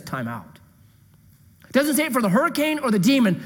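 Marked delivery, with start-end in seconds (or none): 0.0-0.6 soft and much quieter, gently stopping everything; hushed and tender call; quiet time out. Acted. Jesus stopping everything for the woman, softly. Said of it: "just says".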